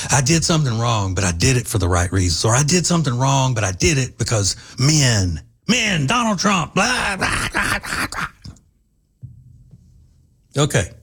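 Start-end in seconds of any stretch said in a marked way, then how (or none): 0.1-8.3 mocking feminists. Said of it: "they'll have people there to say".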